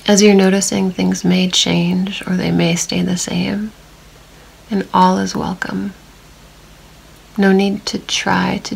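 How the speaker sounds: calm meditation voice with long silences; unhurried, even guiding, leaving long pauses to notice; guided body scan. Real, not acted. Meditation guide leading listeners through a body scan, calm and spacious.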